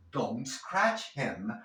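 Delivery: slow don't scratch, T running straight into S; no false E. Shown as a demonstration. Teacher demonstrating the linking trick, don't scratch joined slowly. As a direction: link don't to scratch without an "eh". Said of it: "vas a poder eliminar la E falsa".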